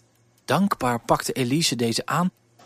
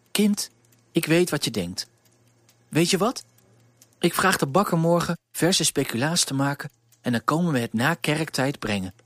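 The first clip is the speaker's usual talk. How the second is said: put-on reassuring the worried girl; baker's wife; 3 semitones higher than usual.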